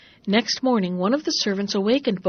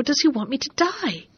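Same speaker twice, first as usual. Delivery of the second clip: higher, louder anguished questions; distressed pleading; 3 semitones higher, 4 dB louder than usual. Acted. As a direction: plead in disbelief with the servant. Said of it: "exclaimed Bobino".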